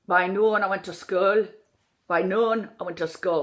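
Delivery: "noon" and "school" with a short vowel as in "would"; Irish OO. Shown as a demonstration. Coach drilling the vowel, "noon" and "school" like "should". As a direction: shorten OO in "noon" toward "could". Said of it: "So it's almost like noon".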